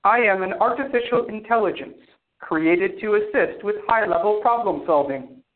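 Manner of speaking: even, toneless AI robot voice. Acted. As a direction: speak like a calm machine. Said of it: "weird robot voice thing".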